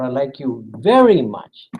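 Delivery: very stressed. Shown as a demonstration. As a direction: lean on the word very. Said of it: "totally different meaning".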